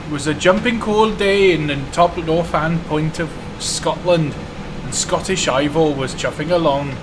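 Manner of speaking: storytelling in a bad Welsh accent; terrible Welsh accent. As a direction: tell the tale in a hammy Welsh lilt. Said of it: "in a terrible Welsh accent".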